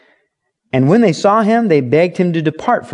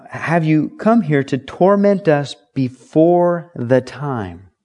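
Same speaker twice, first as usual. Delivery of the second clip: slow emphatic reading; slower than usual. Retold or imitated. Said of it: "He says".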